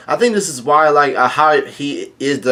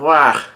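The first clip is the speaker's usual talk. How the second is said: short, mildly raised mock cry of "wah"; mock yell; 2 semitones higher, 4 dB louder than usual. Fighter cries out mid-battle, a mild mock yell. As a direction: give a brief, half-hearted yell. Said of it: "yelling out".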